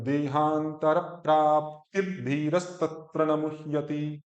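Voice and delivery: slow, even verse recitation; measured syllable-by-syllable chant; joined Sanskrit recitation. Shown as a demonstration. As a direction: recite the Sanskrit line without gaps. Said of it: "सुनने में अच्छा लगता है".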